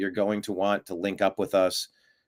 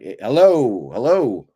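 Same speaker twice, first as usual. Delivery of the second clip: half-raised yell of disbelief; mock exasperated yelling; 3 dB louder than usual. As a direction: call out as if nobody is listening, swooping on key words. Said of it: "then you start screaming".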